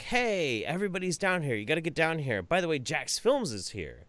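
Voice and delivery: playing the wife reading out her text; wife's texted words. A hint of the wife's voice as he reads her text. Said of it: "she's like".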